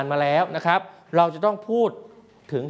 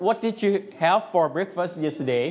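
slow model question; 4 semitones higher, much slower than usual. Shown as a demonstration. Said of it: "โอเค Perth".

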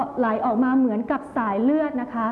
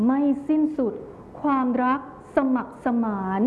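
loving tone. Shown as a demonstration. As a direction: recite it lovingly, pausing between phrases. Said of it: "น้ำเสียงที่แสดงถึง ความรัก". (อ่านกลอนด้วยน้ำเสียงความรัก)

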